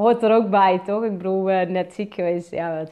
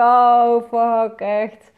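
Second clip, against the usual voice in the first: loud, fed-up oh fuck, half laughing at herself; exasperated curse; 2 semitones higher, 8 dB louder, much slower than usual. Retold or imitated. Coach retelling her own stomach pain, exasperated oh fuck. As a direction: act out catching herself again, annoyed. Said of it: "Dan denk ik".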